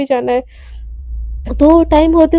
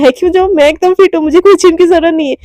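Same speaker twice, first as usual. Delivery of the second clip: quick brush-off; 5 dB louder, faster than usual. Acted. Romi refusing gym, quick.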